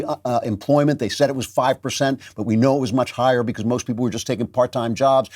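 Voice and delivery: ordinary talk, nothing marked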